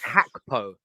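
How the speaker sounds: "Hakpo" with an initial h sound, drawn out; newly learned pronunciation. Shown as a demonstration. Co-host trying out the newly learned name, "Hakpo" with H. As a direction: say "Hakpo" slowly, opening on H. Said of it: "we learned something".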